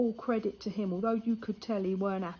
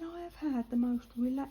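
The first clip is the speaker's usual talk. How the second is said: artist's words in a hushed whisper; whispered quote; 5 semitones higher than usual. Retold or imitated. Breathy whisper quoting the artist. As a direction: tattoo artist confiding how relaxing it was, whispered.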